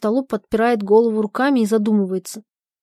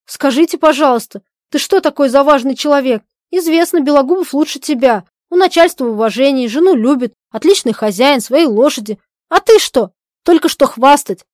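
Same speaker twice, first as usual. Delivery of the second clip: mocking; 4 semitones higher, 6 dB louder than usual. Polina mocks Zhadov.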